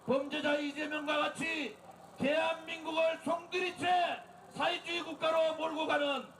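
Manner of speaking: shouted protest speech to a crowd; rally the crowd at full volume; roaring rallying speech. Real, not acted. Leads political rally.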